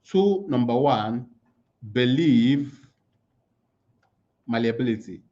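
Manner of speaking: Tool number one, believe malleability spaced out slowly for writing; slow dictation pace. Shown as a demonstration. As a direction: dictate each word with long pauses. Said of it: "I'm gonna write it down".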